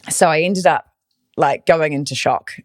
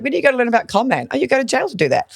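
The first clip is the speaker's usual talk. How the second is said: mock con man reasoning; 9 semitones higher, faster than usual. Mocking the con man's logic.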